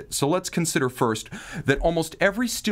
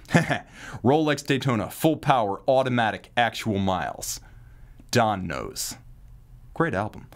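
used car salesman; 4 semitones lower than usual. Pretend. Host mocking a seller as a used car salesman, lightly hammed-up pitch. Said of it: "a new sales tactic for used car salesmen".

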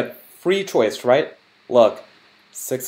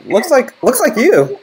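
excited reveal; 11 semitones higher, 7 dB louder, slower than usual. Acted. Revealing the tattoo loudly.

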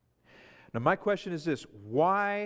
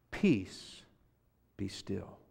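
calm command; 7 semitones lower, 4 dB quieter, much slower than usual. Acted. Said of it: "we say it like that".

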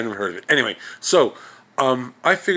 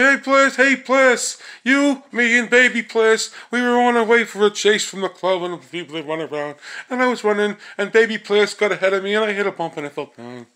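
Hula Hula impression; 6 semitones higher than usual. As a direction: rattle it off like the happy-go-lucky cartoon sidekick. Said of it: "he kinda talked like this a little bit".

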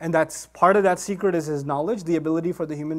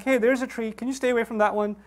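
chill, casual request; 2 semitones higher than usual. Retold or imitated. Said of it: "He seems pretty chill about the whole thing".

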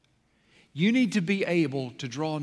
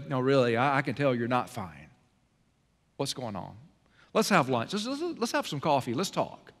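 softer, lower, concerned invitation; gentle caring friend; 4 semitones lower, 3 dB quieter than usual. Retold or imitated. Friend to hurting friend over lunch, gently and softly. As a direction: coax them gently into opening up.

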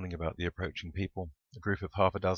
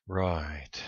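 drawn-out, doubtful acknowledgement; unsure, doubtful response; uncertain mutter; 3 dB louder than usual. A narrator's reading. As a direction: agree without conviction. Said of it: "Shep muttered uncertainly".

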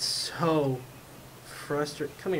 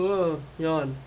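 yawn; 4 semitones higher, 4 dB louder than usual. Real, not acted. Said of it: "Second yawn".

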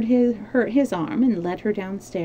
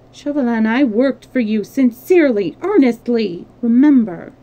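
earnest urging; 3 semitones higher, 8 dB louder than usual. A narrator's reading. Marguerite urges him.

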